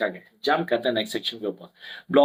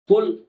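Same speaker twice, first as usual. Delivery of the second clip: "हुल" given extra weight; stressed syllable; 10 semitones higher, 6 dB louder, slower than usual. Shown as a demonstration. Teacher showing students the stressed syllable, emphatic. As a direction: lean firmly on the syllable "हुल". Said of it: "उसमें ज्यादा stress दे रहा हूँ".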